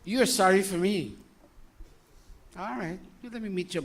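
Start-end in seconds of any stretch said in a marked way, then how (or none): none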